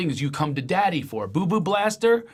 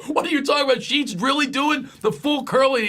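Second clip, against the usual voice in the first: shocked to hear the wife does Curly; mock disbelief; 11 semitones higher than usual. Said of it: "And I go".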